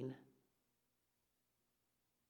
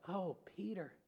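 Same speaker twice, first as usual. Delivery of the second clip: gentle head-shake; 4 dB quieter than usual. Retold or imitated. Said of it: "Jesus just shaking his head".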